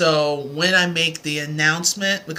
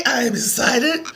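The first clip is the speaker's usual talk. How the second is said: ordinary talk, nothing marked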